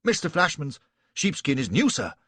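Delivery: a lightly voiced officer answering firmly; Reynolds replying. A narrator's reading. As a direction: stand your ground politely. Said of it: "said Reynolds".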